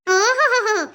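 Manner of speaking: laughing scornfully through the words; mocking laugh. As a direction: laugh him off, slowing at the end. Mother-in-law mocks father's claim.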